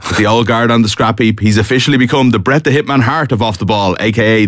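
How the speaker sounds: lightly hyped contestant introduction; show announcer. Acted. Host introduces today's big favourite, mock-grand announcer style. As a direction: build up the contestant like a ring announcer.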